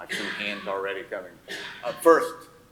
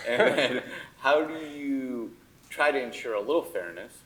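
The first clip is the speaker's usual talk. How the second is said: a real laugh breaking into the question, then pushing on louder; 5 semitones higher, 6 dB louder than usual. Real, not acted. Moderator asking the panel about fairness, laughing. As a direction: chuckle through it and keep asking.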